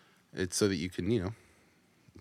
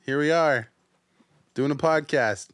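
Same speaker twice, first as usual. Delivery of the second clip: hyped announcer, higher and louder; frantic mock sports commentary; 6 semitones higher, 7 dB louder than usual. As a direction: call it like a live match. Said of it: "that was my commentary on our podcast".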